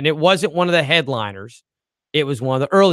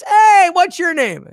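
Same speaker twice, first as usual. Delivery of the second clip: high, slow showman greeting; imitating the comedian working the room; comic's crowd-work voice; 13 semitones higher, 5 dB louder, slower than usual. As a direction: call out to the crowd like a club comic. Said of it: "and he goes".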